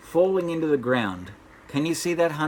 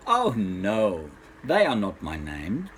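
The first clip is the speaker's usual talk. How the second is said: little man refusing; 4 semitones lower, slower than usual. Acted.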